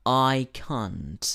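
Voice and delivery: drawn-out British "can't", like "kahnt"; slow demo of "can't" with a broad ah; British pronunciation. Shown as a demonstration. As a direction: say "can't" the British way, long open a. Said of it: "en la pronunciación británica".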